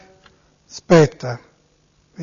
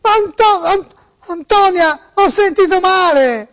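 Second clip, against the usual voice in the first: raised, whiny tearful voice; distressed victim voice; 3 semitones higher than usual. Pretend. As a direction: play a wailing robbed man. Prank call, distressed victim.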